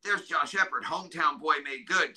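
lightly voiced admiring neighbours; proud praise. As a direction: quote the town proudly, lightly. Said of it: "I went from".

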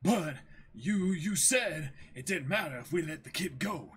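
high, loud, whiny protest; a flustered henchman pleading back; reading the manga aloud, high whiny henchman; protesting pirate Django. Acted. Reads Django's lines.

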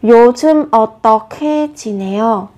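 어떻게 run together as eo-tteo-khe, a small puff on khe; linked, aspirated sound. Shown as a demonstration. Teacher showing learners the batchim linking, 어떻게 with an aspirated k. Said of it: "các bạn sẽ phát âm giống với âm khờ ấy, bật hơi một chút".

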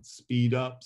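quick, lifted "Speed up"; brisk "Speed up". Shown as a demonstration. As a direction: push "Speed up" forward. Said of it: "Vary your rate".

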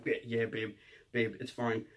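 low, soft reassurance to a partner; hushed "it's fine" to a girlfriend; retold calming. Calming crying girlfriend on phone.

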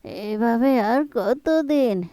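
put-on slow, frail plea from a sick old mother; weak sick pleading. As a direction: drag the words out like every breath hurts. Bedridden mother begs for medicine.

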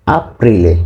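আপ্রিলে with stressed long "pri" and final "le"; Italian pronunciation demo. Shown as a demonstration. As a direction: model আপ্রিলে for learners to repeat. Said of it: "আমরা বারবার উচ্চারণ করব". (আপ্রিলে-র ‘প্রি’-তে জোর দিয়ে Italian উচ্চারণ)

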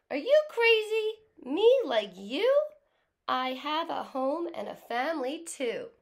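mock the tiny ant loudly; kid voice. A narrator's reading. Teacher voicing the kid scoffing at the ant, loud. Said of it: "Now the kid is speaking".

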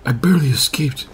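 lightly put-on stupid voice; a hint of a mocked madwoman; mock crazed woman. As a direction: imitate a silly game character. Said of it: "with that stupid voice of hers".

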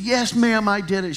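put-on high, rushed, pleading little boy; panicked pleading kid. Ten-year-old begging his teacher, high and panicky. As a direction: beg the teacher like a scared fifth grader. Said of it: "And I was panicked".

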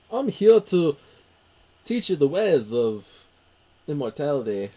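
hammed-up, badly faked Connery; bad Sean Connery impression. Host mimicking Connery's mentor line in Highlander, bad loud impression. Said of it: "bad impression".

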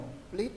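"complete" drawn out on the main syllable PLETE; stress on second syllable. Shown as a demonstration. Teacher corrects student's stress, making PLETE the main part of "complete". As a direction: lean slowly on the end of "complete". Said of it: "mới là chính".

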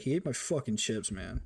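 mock sullen brush-off; pouty. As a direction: grumble it with a pout, retold. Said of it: "I go to class all pouty".

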